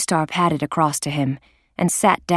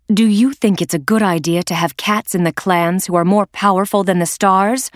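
challenging; 3 semitones higher, 3 dB louder than usual. Acted. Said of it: "Blue Star challenged".

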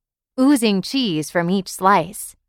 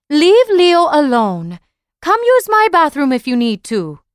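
higher, louder calling down the hall; mom calling out; 8 semitones higher, 5 dB louder than usual. A narrator's reading. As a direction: call it out from another room. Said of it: "Mama's voice called out".

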